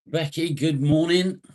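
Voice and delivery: high, loud singsong hello; calling out greeting. Real, not acted. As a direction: call it out to a friend just arriving. Hailing a viewer joining the stream.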